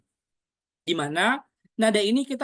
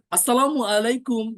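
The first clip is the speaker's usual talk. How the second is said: projected greeting released from the belly; diaphragm voice; 3 semitones higher, 4 dB louder than usual. Shown as a demonstration. Coach demonstrates speaking on a belly breath, projected. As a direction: let it out unforced, not held in the throat. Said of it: "tidak ditahan tenggorokan".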